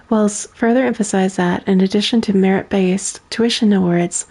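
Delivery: even, measured news-read delivery; newspaper read. Acted. Streamer reading a game newspaper to chat, plain news read. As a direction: read the headlines like a local reporter.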